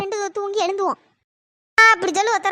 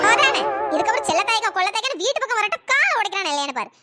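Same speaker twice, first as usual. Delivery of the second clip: angry ranting. Acted. Duped mourner storming off from the coffins, angry ranting. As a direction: rant at them in disgust. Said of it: "இந்த கத்து கத்திட்டு போறாளுவே".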